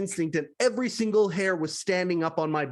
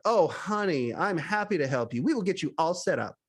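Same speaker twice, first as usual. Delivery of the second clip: flamboyant honey. Retold or imitated. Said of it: "cheerful and flamboyant".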